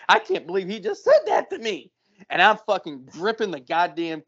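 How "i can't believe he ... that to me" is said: higher-pitched imitation of a shocked bagger girl; mock terrified. Bagger girl reacting to the customer, mock terrified. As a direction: play her shock, pitched up. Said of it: "just fucking terrified".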